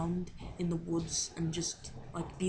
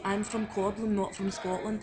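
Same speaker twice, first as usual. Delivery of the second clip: practised line in an attempted Scottish accent; learner's Scottish accent, lightly worn; 4 dB louder than usual. Shown as a demonstration. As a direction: put on a rough Scottish accent. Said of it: "only thing I can actually say in my Scottish accent".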